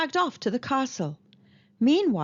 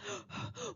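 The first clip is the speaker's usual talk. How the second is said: breathless gasp; 13 semitones higher, 16 dB quieter than usual. Acted. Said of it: "gasped the townsfolk".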